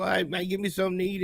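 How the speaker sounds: breezy, rushed ordering voice; ordering food without a care; easygoing quick mumble. Retold or imitated. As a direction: toss it off casually and fast. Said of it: "going in on some easy go".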